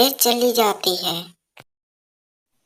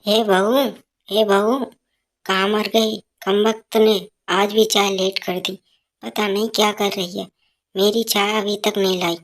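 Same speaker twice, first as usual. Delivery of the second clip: put-on a scolding old woman calling for her tea; mother-in-law shouting for her tea, scolding; nagging mother-in-law. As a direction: bark for the daughter-in-law.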